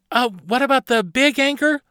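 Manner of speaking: put-on high, loud questioning child; anxious girl captain. Carly asks Barnabas about the big anchor, high and urgent. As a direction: pipe up with a hopeful suggestion.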